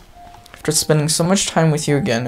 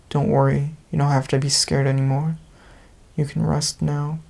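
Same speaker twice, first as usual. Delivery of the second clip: soothing temptation; 3 dB quieter than usual. Acted. Dark voice urging Momo to quit.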